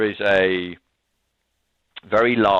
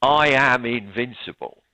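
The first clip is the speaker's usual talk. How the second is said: louder, higher and drawn out; imitated triumphant scream; 5 semitones higher, 5 dB louder, slower than usual. Boris realizing he survived the explosion, imitated triumphant scream. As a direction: proclaim it slowly like a gloating movie villain. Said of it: "he stands up and he screams".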